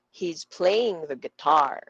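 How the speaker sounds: "playing" and "guitar" stressed, "the" kept light; sentence stress. Shown as a demonstration. Teacher modelling for students, stress on "playing" and "guitar". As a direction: punch "playing", pass lightly over "the", land on "guitar". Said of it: "this should sound like".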